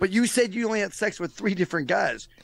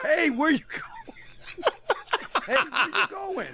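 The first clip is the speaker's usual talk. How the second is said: calling after her; 11 semitones higher, slower than usual. Acted. Calling after girlfriend walking out.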